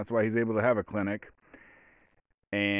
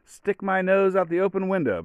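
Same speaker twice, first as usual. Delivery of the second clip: much higher, gleeful voice of a car-loving dog; eager dog voice; 10 semitones higher than usual. Acted. Voiced dog answering its owner, much higher and excited. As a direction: squeal it out like a thrilled pup. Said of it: "The dog is like".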